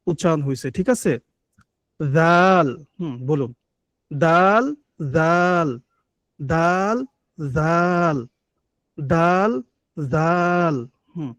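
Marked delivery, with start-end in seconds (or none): 4.1-10.8 দাল with tongue tip on the upper teeth roots, then জাল; teacher contrasting Arabic letters; dal and zal contrast. Shown as a demonstration. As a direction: alternate দাল and জাল, keeping the two sounds apart. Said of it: "practice করুন তো".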